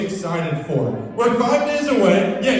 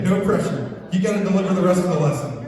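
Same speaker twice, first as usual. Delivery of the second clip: joking tease; 5 semitones lower, faster than usual. Pretend. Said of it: "I'm just kidding".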